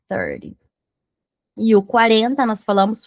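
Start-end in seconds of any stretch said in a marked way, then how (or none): 0.1-0.6 "thirty" with TH start and tapped T; tongue between teeth to begin "thirty". Shown as a demonstration. Teacher refines the approximation, adding TH at the start. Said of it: "mas com o T H".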